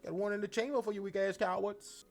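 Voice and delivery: high, loud, fast taunting promo; acted wrestler promo. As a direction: rap the threat at the cowards. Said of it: "what song that is".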